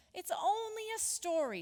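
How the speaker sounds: lightly mocking schoolchild; dismissive classmates. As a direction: brush it off in a sing-song. Scoffing classmates in story.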